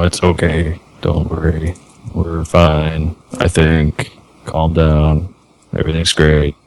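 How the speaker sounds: low, calm horse-whisperer voice; gently calm a nervous horse; soothing a horse. Acted. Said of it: "is that your horse whisperer voice".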